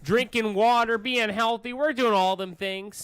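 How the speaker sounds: rising mock announcement. Mock chant rising in pitch.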